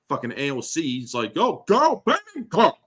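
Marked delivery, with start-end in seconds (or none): 1.3-2.7 high, exaggerated mimicry; mock sassy outburst. Host mimicking a congresswoman, high sassy mock outburst. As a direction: pitch it way up, mocking her.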